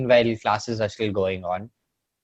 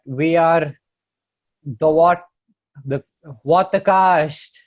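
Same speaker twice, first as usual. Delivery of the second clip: announcer voice; 6 semitones higher, 7 dB louder, slower than usual. Acted. Slow show-name announcement.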